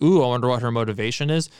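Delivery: fast, curious ooh; intrigued mock wonder. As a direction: play it like a curious mystery fan. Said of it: "Or, like".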